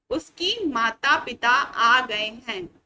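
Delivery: said slowly and loud as the wrong version; slow wrong example. Shown as a demonstration. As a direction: read out the mistake slowly: "उसकी माता पिता आ गए हैं". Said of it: "जो कि एक गलत वाक्य है".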